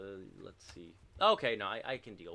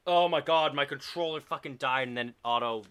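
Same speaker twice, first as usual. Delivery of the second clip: loud, high outburst of disbelief; real frustrated shout; 6 semitones higher, 13 dB louder than usual. Real, not acted. Gamer yelling at the stream as the dead controller costs the round, loud and high. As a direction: yell it out as the round slips away.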